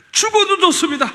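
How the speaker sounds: shouted high and loud, 죽어도 hit hard and falling; fervent vow. Retold or imitated. Pastor recalling his answer to God, shouting the vow. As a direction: cry out 죽어도 좋습니다 with all your heart.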